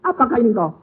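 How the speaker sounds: high, loud cry of recognition; startled realization. Acted. Wife recognizing Jesus at night, high and startled. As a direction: gasp out the question to the Lord. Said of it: "dia bilang".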